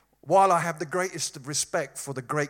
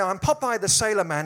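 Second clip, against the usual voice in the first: loud, higher sailor catchphrase; Popeye; 6 semitones higher, 7 dB louder than usual. Acted. Preacher quoting a cartoon sailor's song, loud impression. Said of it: "he used to sing this song".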